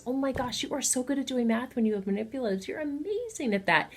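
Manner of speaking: put-on high, gushing praise for a child; enthusiastic praise. Parent praising a child's homework, gushing and high. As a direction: cheer the kid on like they just amazed you. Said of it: "watching them do their homework and saying".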